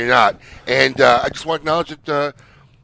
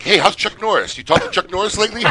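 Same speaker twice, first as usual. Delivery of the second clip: higher-pitched mock greeting for onlookers; public name-dropper; 7 semitones higher than usual. Host teasing guest in public, showy greeting. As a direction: pitch it up so bystanders hear. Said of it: "Especially in public".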